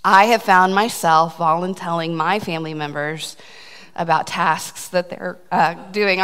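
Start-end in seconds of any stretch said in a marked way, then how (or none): 3.9-6.2 slowed, holding back a laugh; laughter caught in the throat; trying not to laugh. Real, not acted. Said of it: "I'm trying not to laugh".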